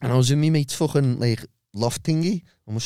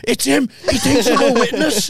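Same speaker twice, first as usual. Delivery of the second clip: high, loud mock panic; panicked thought; 12 semitones higher, 5 dB louder than usual. Fleeing the shop in the story, a high panicked mock yelp. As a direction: yelp it like you're being chased. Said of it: "I'm thinking".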